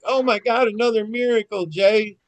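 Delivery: high-pitched exclaiming wife; retold amazement. Wife running out the door to Jay, retold amazement.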